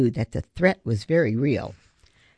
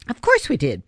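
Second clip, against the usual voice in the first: reassuring; 4 semitones higher, 4 dB louder than usual. Acted. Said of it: "Ben assured her".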